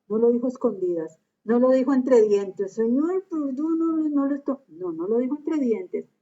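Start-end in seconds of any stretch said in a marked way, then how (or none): 2.7-4.6 higher, raised cry of forgiveness; a mild mock shout to the Lord; shouted plea. Preacher re-enacting Stephen crying out, moderately raised. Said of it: "lo gritó".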